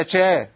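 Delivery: شا with the sh turned into a ch; شا said with a ch sound; wrong ch-like sh. Shown as a demonstration. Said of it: "ما ينفعش اقول شا".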